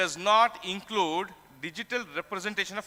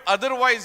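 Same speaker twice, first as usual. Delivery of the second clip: "otherwise" punched out louder as the key word; stress on otherwise; 3 semitones higher, 6 dB louder than usual. Shown as a demonstration. Lecturer pointing students to the crucial word, loud stress. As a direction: land hard on "otherwise". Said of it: "why is the need for us to emphasize the meaning of the word".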